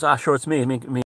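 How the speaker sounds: lightly imitated apologetic Sligo shopkeeper; Sligo accent. Shop woman apologising for her accent, Sligo accent. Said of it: "Sligo accent".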